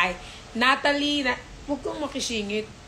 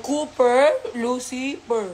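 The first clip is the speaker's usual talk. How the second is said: slow naming; 3 dB louder, slower than usual. Shown as a demonstration. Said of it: "Ang buo niya pangalan niya".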